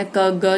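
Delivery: क, ग cut short, hardly any vowel; half consonants. Shown as a demonstration. Teacher shows halant letters, क, ग cut short. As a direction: say only half of क and ग. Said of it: "ये आधा आधा".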